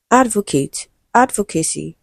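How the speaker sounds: "Advocate, advocacy", each stressed on "ad"; first-syllable stress. Shown as a demonstration. Teacher giving students stress examples, first syllable stressed in "Advocate" and "advocacy". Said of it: "stressed on the first syllable".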